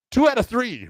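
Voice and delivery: high-pitched imitation of a loser bargaining; pleading demand. Choked-out fighter to referee wanting rematch, high pleading. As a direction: blurt it high, angling for a rematch.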